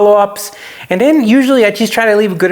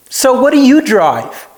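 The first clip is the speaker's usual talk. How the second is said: higher, slow, sweetly innocent question; nice way; 6 semitones higher, slower than usual. Retold or imitated. Turning the tables on the critic, sweetly innocent. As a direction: ask nicely with a hidden motive. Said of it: "in a nice way".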